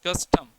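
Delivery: कस्टम with कस stressed, टम unstressed; stress on first syllable. Shown as a demonstration. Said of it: "ट्रोकी के अंदर पहले stress आएगा".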